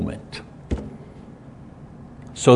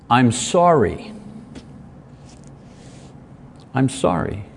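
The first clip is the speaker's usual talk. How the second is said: sincere apology; 4 semitones lower, 5 dB quieter than usual. Acted. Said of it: "What was missing was".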